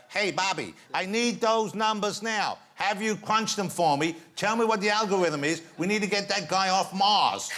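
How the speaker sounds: high, slow, urgent NASA role-play; NASA woman. Pretend. Host cues guest as NASA colleague, high urgent role-play. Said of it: "I'm NASA Woman three".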